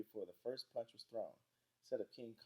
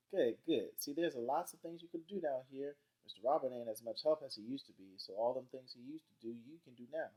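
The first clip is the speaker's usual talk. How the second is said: higher-pitched Southern grandma voice; approving grandma; 5 semitones higher, 4 dB louder than usual. Acted. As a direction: lay out the chores as granny. Grandma Sands instructs Byron.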